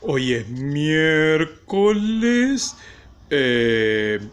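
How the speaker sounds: lightly imitating a teacher's slow greeting; mock teacher. Supervisor posing as the teacher for the children, drawn-out mimicry. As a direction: stretch the vowels like a teacher addressing little ones. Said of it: "haciéndose pasar por mí la supervisora".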